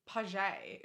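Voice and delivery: Pajay said French-style, ending in a "zhay"; fancy French pronunciation. Shown as a demonstration. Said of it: "like a fancy French way of saying".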